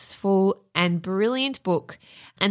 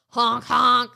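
goofy goose honks; silly clown; 3 semitones higher than usual. Pretend. Playing a goose with boots.

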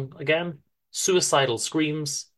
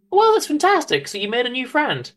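high, louder happy wife; delighted wife; 11 semitones higher, 5 dB louder than usual. Acted. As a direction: squeal it out as the pleased wife.

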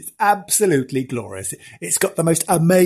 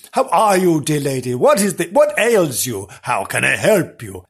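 hammed-up chivalrous concern; playfully overdone gentlemanly enquiry; mock gallant gentleman. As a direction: ask with theatrical, old-fashioned politeness. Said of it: "they wouldn't speak like that".

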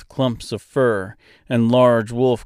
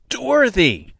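high, loud yell of her name; 13 semitones higher, 4 dB louder than usual. Acted. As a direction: shout her name to finally get through. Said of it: "Mister finally yelled".

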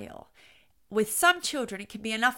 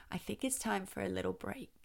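much softer, gentle suggestion; 2 semitones lower, 10 dB quieter than usual. Shown as a demonstration. Parent suggesting a little break, very softly. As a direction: drop the volume right down to soothe. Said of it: "I would talk very softly".

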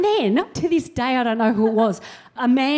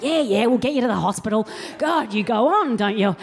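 dismissive mum. Retold or imitated. Mum brushing off complaint.

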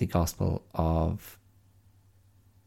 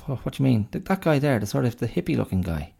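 second pig; 5 semitones higher, faster than usual. Retold or imitated. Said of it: "the other pig goes".

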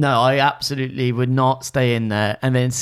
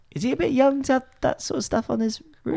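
mock disapproval; 13 semitones higher, faster than usual. Real, not acted. Mock shocked question.

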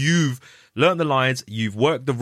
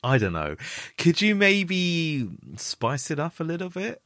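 drawn-out, higher, mock-tentative voice; hesitant coaxing request; 6 semitones higher, slower than usual. Casting team awkwardly asking the actor to go again, hesitant and coaxing. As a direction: imitate someone gingerly asking for a redo. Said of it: "they're like".

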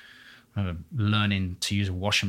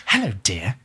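whispering. Retold or imitated. Retold dame voicing a front-row punter.

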